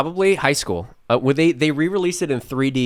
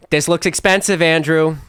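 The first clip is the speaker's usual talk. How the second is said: imitating mom; 4 semitones higher, 3 dB louder than usual. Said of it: "my mom going".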